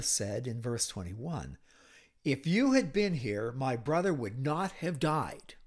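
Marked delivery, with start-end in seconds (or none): 2.2-5.5 lightly accusing, a bit louder; mild reproach from a grieving sister to Jesus; accusatory tone. Acted. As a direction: blame him with the words. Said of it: "that was an accusatory tone".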